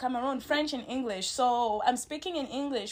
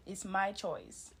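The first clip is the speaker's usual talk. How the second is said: whispered emphasis; 5 semitones lower, 9 dB quieter, slower than usual. Real, not acted. Asserting her right to choose.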